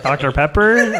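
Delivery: high, loud echoed question; mock incredulity. Waiter embarrassing one person at the table, mock incredulous. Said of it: "just to embarrass one person".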